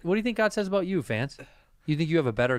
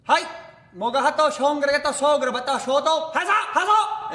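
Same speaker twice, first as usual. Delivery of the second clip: mock Asian language; 10 semitones higher than usual. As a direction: bark high mock-Asian gibberish orders. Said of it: "and I would say".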